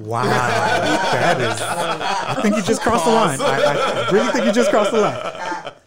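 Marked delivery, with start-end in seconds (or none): 1.6-4.1 laughing. Real, not acted. Laughing at an outrageous remark. 4.1-5.7 laughing. Real, not acted. Laughing at an outrageous remark.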